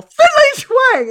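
loud, high, slow yelled catchphrase; stretched-out high yell of the catchphrase. Retold or imitated. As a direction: shout it at your friend across the room. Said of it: "just yell".

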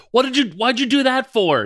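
calling from another room. Retold or imitated. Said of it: "the wife from the other room's like".

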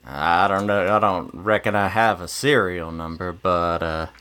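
low, reluctant cowboy reply; hesitant gunslinger. Acted. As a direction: answer an officer as an unsure gunslinger. Player answers officer as gunslinger.

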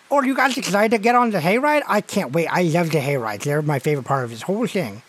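put-on lisping young boy, eager for the hayride; excited child with missing front teeth; gap-toothed kid. AJ to the people ahead in the hayride line, gap-toothed kid. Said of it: "What's wrong with your teeth?".

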